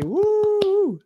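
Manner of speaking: high whoop of joy; excited cheer. Acted. Teacher cheering the class.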